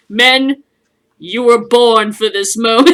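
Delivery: loud, a hint of a rousing warlord; rally the men with mock gravity; lightly voiced commander. Rollo rallies his men after killing a coward, mock-heroic. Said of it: "and goes".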